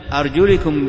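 أرجلكم with an "i" after the lam, arjulikum; kasra on the lam. Shown as a demonstration. Teacher explaining the word form, أرجلكم said arjulikum with kasra. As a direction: say أرجلكم as arjulikum, short "i" vowel. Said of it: "بالكسر".

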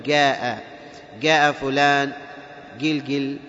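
"جاء" said as gaa; hard g opening "جاء" and "قلقل"; dialect g for jim. Shown as a demonstration. Teacher quotes dialect speakers, g in "جاء". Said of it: "في اللهجة الدارجة يقول".

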